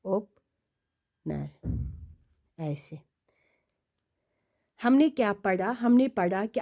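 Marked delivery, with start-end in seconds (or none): 0.0-1.5 ओपनर stretched long and soft while tracing; ओपनर murmured very slowly; very slow drawn-out word. Shown as a demonstration. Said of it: "ओपनर को ऐसे". 2.6-3.0 whispered aside. Real, not acted. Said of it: "while writing on board".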